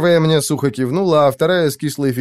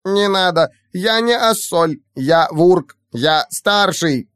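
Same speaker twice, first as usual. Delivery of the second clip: high indignant creature squeak; squeaky creature protest; 6 semitones higher, slower than usual. Acted. Renamed creature protests, high squeaky voice.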